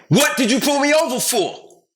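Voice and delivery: high, slow retold yell; screaming at him. Driver screams at the officer who pulled him over. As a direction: scream it at the cop. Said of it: "I started screaming at him".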